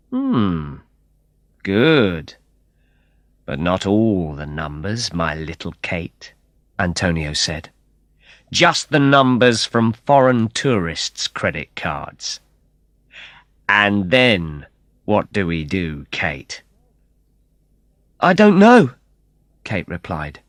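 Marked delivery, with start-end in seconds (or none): 0.1-16.6 slow, low cold villain; lightly voiced menacing villain; cold menace. Antonio mocks Kate with a cold smile, slow and lightly menacing. 18.2-18.9 high, loud nervous answer; frightened reply. Acted. Kate answers Antonio's question, high and frightened.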